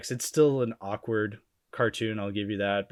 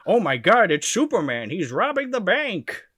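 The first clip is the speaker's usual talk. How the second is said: higher, louder hammed-up alarm; mock panicked bystanders; 8 semitones higher, 6 dB louder than usual. Fooled bystanders spotting fake Superman, hammed-up panic. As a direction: gasp it out like a fooled townsperson. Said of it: "fool people to be like".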